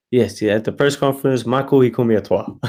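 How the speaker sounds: put-on amateur French Canadian accent; the speaker's French Canadian accent. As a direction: imitate an earnest French Canadian complaint. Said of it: "I can't do the accent, I'm so bad".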